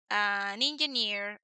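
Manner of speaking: said slowly for learners; slow classroom example; slow demo phrase. Shown as a demonstration. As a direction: stretch out an engineer. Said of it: "yo digo".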